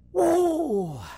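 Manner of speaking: long held whoop, falling off; acted-out drawn whoop; hollered whoa. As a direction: imitate a holler across water. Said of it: "Hollering out across that water".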